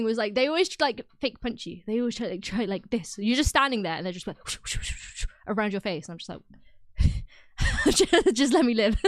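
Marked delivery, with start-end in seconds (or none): 4.4-5.4 imitated punch whooshes. Imitating fake punches round the face. 7.0-9.1 slow words breaking into laughter; loud, laughing exasperation; laughing plea. Real, not acted. Laughing over her brothers' pestering.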